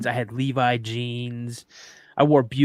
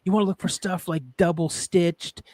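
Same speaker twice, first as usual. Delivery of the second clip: imitating daughter; 5 semitones higher than usual. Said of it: "She's like".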